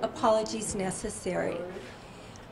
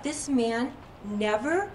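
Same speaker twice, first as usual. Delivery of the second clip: slow, indignant retold disbelief, pitch climbing at the end; mock outrage, drawn out and rising into a question; mildly furious; 4 semitones higher, slower than usual. Woman stews over the man who hit her, mildly furious. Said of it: "She was just furious".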